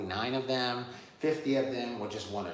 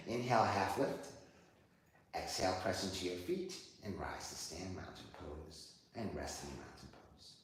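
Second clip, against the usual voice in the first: soft, lowered yoga cue; 5 semitones lower, 4 dB quieter than usual. Real, not acted. Teacher bringing student to rest in mountain pose, soft yoga cueing. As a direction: settle them softly into the pose. Leads yoga breath cues.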